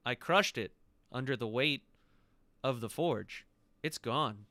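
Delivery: lightly voiced dragon, grave accusation; deliberate, emphatic dragon pronouncement; voiced emerald dragon. Dragon tells the visitors he crushed the phylactery, measured menace.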